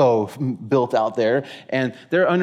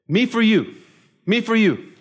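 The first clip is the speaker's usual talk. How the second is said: put-on lightly raised, higher child's voice; a hint of an eager small boy; a small boy half-sings his invite; little kid voice; 6 semitones higher than usual. Child inviting him onto his team.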